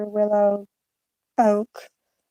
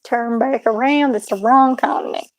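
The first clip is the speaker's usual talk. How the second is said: louder, urgent mock warning in redneck twang; 5 dB louder than usual. Streamer warning their own straying accent, mock alarm. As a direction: call out a playful course correction.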